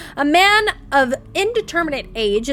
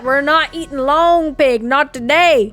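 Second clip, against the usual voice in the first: firm refusal; 4 dB louder, slower than usual. Real, not acted. Refusing cannibal food to chat.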